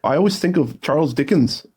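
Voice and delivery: slow, badly faked British accent; hammed-up British accent, drawing out the vowels. Shown as a demonstration. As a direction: attempt British and let it slip. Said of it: "where I sound not British".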